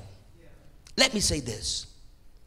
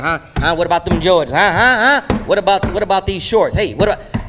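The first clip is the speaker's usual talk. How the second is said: showy boastful taunt; mock bragging; 4 dB louder than usual. Dad on Facebook bragging about buying Jordans. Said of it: "on Facebook bragging".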